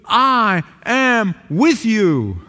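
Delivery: slow, measured "I am with you"; the Lord speaking. Acted. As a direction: speak it as God's gentle promise. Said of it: "hear those words from the Lord saying to you".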